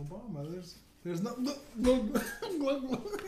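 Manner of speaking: the chef begging Obama while held down; mock panic.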